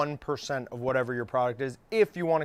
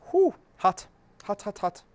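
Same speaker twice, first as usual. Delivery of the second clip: talking around a hot bite; gasping out words through hot food; mouth full of hot food; 6 semitones higher than usual. Real, not acted. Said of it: "I have a sensitive little mouth".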